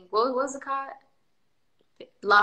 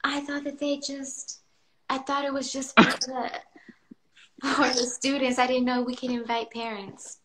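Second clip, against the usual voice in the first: imitating daughter; 3 semitones higher than usual. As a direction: mimic her daughter's mumbling excuse. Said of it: "this is how you sound".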